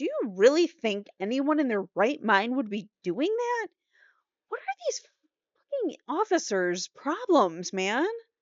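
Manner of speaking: angry, pissed-off, high-pitched rant. Complaining about someone acting up for attention, the speaker bursts out angrily. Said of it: "this pisses me off".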